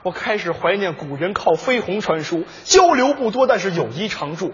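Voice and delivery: mock poem recital. Reflecting on phones to his partner, solemn poem recital. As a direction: declaim it as earnest verse.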